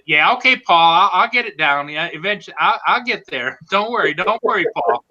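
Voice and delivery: imitated chuckling reassurance. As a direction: imitate a friend laughing off the worry. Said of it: "you'll hear him chuckle and say".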